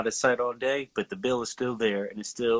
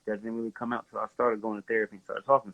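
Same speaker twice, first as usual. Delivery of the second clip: muffled, like through a cloth; faster than usual. Real, not acted. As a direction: talk with the mic covered. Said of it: "You sound muffled".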